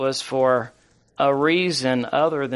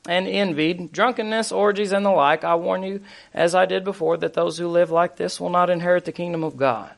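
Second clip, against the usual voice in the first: brisk, higher-pitched reading of a verse; quick scripture reading; 4 semitones higher than usual. Real, not acted. Preacher racing through verses for the congregation, quick scripture reading. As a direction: read straight down the list, pitch raised. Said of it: "I'm gonna read this really fast".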